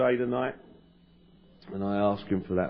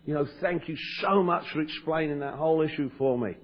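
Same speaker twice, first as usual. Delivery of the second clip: much higher, imitating a man bubbling over; gushing gratitude; 7 semitones higher than usual. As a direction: retell a grateful guy pouring his heart out. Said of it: "he was having his gratitude attack".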